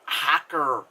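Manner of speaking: slow, drawn-out mock German accent; bad German accent. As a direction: imitate a terribly fake German accent. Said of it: "like, German accent. It was just so bad".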